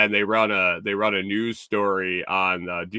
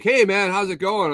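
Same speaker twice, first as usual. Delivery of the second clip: much higher, bright rushed hello; quick cheery hi in passing; breezy clerk greeting; 9 semitones higher, 4 dB louder than usual. Retold or imitated. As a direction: toss it off like a guy on the move. Busy employee greets in passing.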